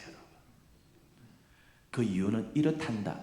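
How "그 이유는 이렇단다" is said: softer, kindly fatherly explanation; gentle explaining God. Pretend. God supposedly explaining suffering to Job, softly and gently. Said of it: "한 말씀도 안 하세요".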